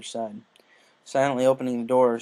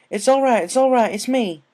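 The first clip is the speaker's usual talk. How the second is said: reassuring; 11 semitones higher, 10 dB louder than usual. A narrator's reading. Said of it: "attempting to calm".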